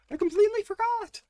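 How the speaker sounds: high, loud startled cry; excited shriek. Real, not acted. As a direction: realise the mistake in a burst. Sudden realisation, shouting.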